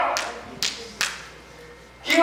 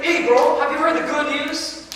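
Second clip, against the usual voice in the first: excited villagers; 5 semitones higher than usual. Acted. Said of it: "a bunch of people come and say".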